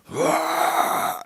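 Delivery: rough unpitched "wah" yell; hoarse-edged mock holler; imitated shout. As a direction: mimic a man letting out a shout.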